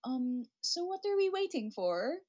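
a hint of a server's polite query; restaurant server. London server asking diners about their order, lightly imitated server. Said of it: "I went to a restaurant and they're like".

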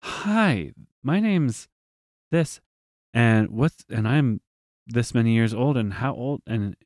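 put-on small child meeting a new friend; little girl voice. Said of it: "so good about, like".

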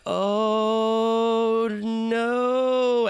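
high, sudden cry of alarm under the lip of the wave; retold panic. Surfer sucked over the falls recalls his panicked cry, high and alarmed. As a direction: squeak out the dread as you go over the falls. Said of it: "I'm like".

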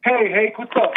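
phone speaker. Real, not acted. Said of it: "you're coming in like you're on a speakerphone".

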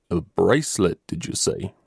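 a hushed, breathless question of surprise; startled exclamation. Acted. The colonel asks the boy, startled and hushed. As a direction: caught off guard, half whispered. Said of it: "exclaimed the colonel".

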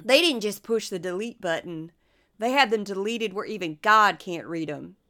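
lightly voiced congressman impersonation; Trey Gowdy. Podcaster quoting a congressman's interview, lightly impersonated. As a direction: read it as a mild impression of a politician. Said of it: "I'll do my best tr-, Trey Gowdy impersonation".

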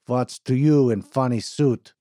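put-on a touch of anger in an Eastern European accent; angry Eastern European worker scoffing at the suit. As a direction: challenge him, accented and irritated. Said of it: "mustered his anger again".

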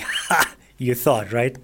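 scoffing "Ha!", then a light taunt; mock them lightly, as if gloating. Bathroom scale jeering at a failed dieter, mocking. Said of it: "in a bit of a mocking tone".

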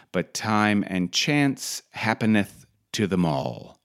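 measured recital with pauses between clauses; scripture reading. Acted. Reads a Bible verse aloud.

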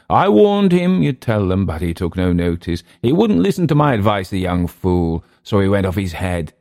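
mocking Emile. Clift mimicking Emile.

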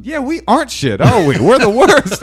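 high, mocking voice of self-hating women. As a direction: parody the women agreeing, way up high. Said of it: "of his show going".

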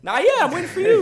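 high, loud, hyped-up goading; shouted challenge. Real, not acted. Goading his rival into a boxing match, shouting. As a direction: shout it as a fired-up dare.

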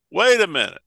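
a touch of mock dismay; protesting money changers. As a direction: protest as puzzled traders. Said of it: "And they're going".

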